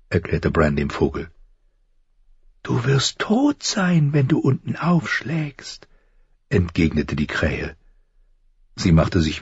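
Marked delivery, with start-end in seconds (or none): 2.6-5.9 high, slow crow warning; high, thin voice. A narrator's reading. Crow warns falling boy of death, high and thin. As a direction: warn slowly in a thin, softening bird voice. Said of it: "Die Stimme klang hoch und dünn".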